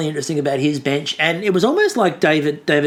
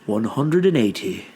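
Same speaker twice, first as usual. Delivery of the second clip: darts caller; 7 semitones lower than usual. Retold or imitated. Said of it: "sound like he was a darts caller practicing at, like, a low volume".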